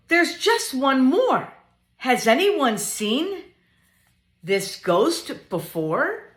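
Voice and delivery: lively storytime voice building to high, loud excitement; bouncy picture book reading; reading to children. Acted. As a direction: read up to the big reveal for little ones.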